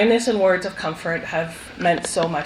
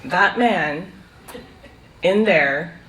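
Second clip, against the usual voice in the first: dead serious; slower than usual. Retold or imitated. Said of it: "very dead serious".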